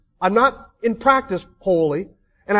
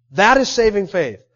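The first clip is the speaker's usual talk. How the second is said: emphatic declaration. Real, not acted. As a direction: proclaim it firmly to the congregation.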